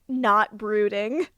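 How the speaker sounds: normal talking voice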